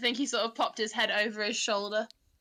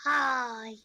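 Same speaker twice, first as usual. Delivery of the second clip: Stitch voice. Acted. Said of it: "That sounded very Stitch".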